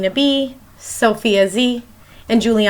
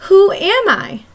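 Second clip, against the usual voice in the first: riddle voice; 9 semitones higher, 3 dB louder than usual. Acted. Teacher reads riddle aloud to kids.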